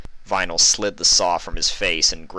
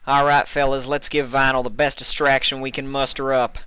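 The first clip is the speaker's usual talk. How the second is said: higher, louder rallying call; country filly rousing the stallions; rallying Applejack; 7 semitones higher, 3 dB louder than usual. A narrator's reading. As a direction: fire up the troops. Applejack rallies her troop.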